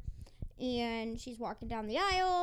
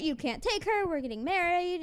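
a touch louder, half-hearted protest; mock angry fit; 4 semitones higher, 4 dB louder than usual. Tamlin protests his bride being taken, in a mock angry fit. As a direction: imitate a groom throwing a mild fit. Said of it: "Pretty much Tamlin's throwing a fit".

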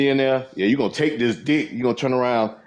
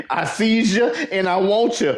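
creepy doll voice; 5 semitones higher than usual. Acted. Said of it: "Fuck around the doll, say".

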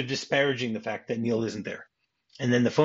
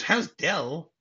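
higher, disbelieving question; mock incredulous echo; 6 semitones higher than usual. Husband repeating his wife's question, incredulous.

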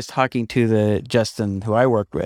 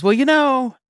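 imitating Phil; 8 semitones higher than usual. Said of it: "and Phil goes".

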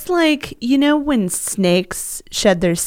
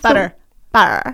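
lips never close on the B; mouth propped open; 3 semitones lower than usual. Shown as a demonstration. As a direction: say it with the jaw held open. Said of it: "say without closing your mouth".

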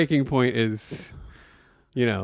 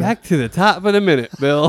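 louder, higher show-host call; mock announcer restart; 4 semitones higher, 3 dB louder than usual. Host restarting the podcast in a booming fake-announcer voice. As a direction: kick the episode back off with fake gusto.

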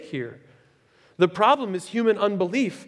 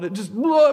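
blurting; 6 semitones higher, 7 dB louder than usual. Shown as a demonstration. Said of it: "bubbles out of him".

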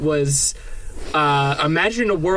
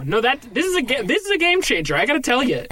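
high, excited gasp of awe; hammed-up wonder at two million likes; mock amazement; 6 semitones higher than usual. Investor gushing over the likes, high and excited.

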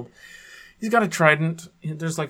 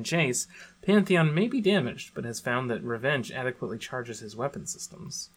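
dramatic lore reading=22. Acted. Reads skin lore aloud.

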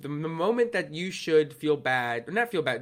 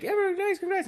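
retold congratulations. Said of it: "They're all like".

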